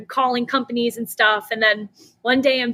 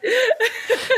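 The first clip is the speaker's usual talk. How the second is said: a sudden high burst of laughter; 12 semitones higher than usual. Real, not acted. Founder admitting her story was long, laughing.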